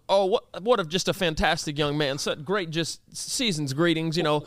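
lightly voiced delighted old-timer; a touch of old-time holiday cheer; sweet old man. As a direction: gush politely like a kindly old grandpa. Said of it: "Why does he speak like he's in the Great Depression".

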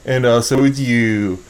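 slow, reverent mass response; solemn church response. Shown as a demonstration. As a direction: intone it slowly, churchlike. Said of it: "Did you say it like that?".

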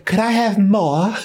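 lightly voiced British boy asking politely; a hint of a pleading British child; British orphan boy. Host suggesting the boy's line to co-host, lightly put-on British accent. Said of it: "I thought you were gonna say".

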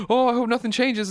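high-pitched mock fretting; lightly mocking, high fan voice; imitating worried fans. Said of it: "people were like".

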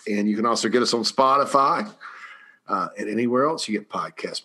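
hoarse, worn-out voice. Real, not acted. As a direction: talk through a tired, hoarse throat. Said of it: "My voice is a little shot today".

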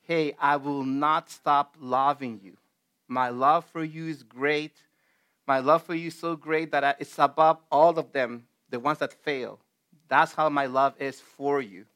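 slow, measured declaration of love; making an emphasis. Retold or imitated. Preacher voicing Peter's love for Jesus, slow mild emphasis. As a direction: spell out each phrase slowly and firmly. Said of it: "he's making an emphasis and saying".

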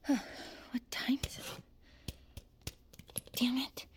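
a whispered, just-woken alarm; groggy whisper. Acted. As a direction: mutter it half asleep. Waking up alarmed in dark.

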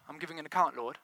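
low, soft, timid admission; reluctant account. Acted. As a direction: offer it meekly, small and subdued. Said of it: "how would you say that? Would you say".

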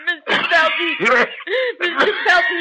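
crying plea; tearful plea. Acted. Daughter begging the press agent to leave, crying. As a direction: beg him through tears.

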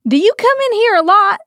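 lifted, lightly acted pickup line; a light stage reading of a pickup line; reading as Bill. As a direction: read it like a hopeful stranger at a café. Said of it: "do a dramatic reading of Sure Thing".

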